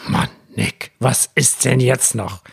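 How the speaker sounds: genervter Vater, gedehnt; mildly exasperated dad, words pushed out one by one. Retold or imitated. (genervt, ungeduldig nachgefragt)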